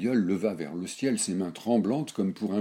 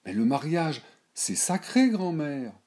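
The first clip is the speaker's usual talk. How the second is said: lightly voiced girl, pitched higher; a granddaughter pleading, a touch higher; young girl Berthe; 10 semitones higher, 6 dB louder than usual. A narrator's reading.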